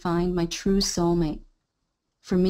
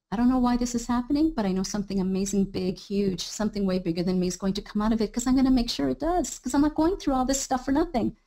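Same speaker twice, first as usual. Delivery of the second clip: confident declaration. Shown as a demonstration. Coach demonstrates the hopeful declaration, mildly determined. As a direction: declare it like a promise to yourself. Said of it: "just set that declaration".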